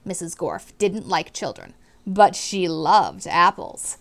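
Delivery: clear, expressive read-aloud to a class; storybook reading voice; reading to children. A narrator's reading. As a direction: read it out like a teacher sharing a book. Teacher narrating chapter to class.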